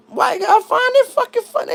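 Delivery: voicing an amused white guy, high-pitched mock white-guy voice. Mimicking white guys to viewers, high-pitched mock voice.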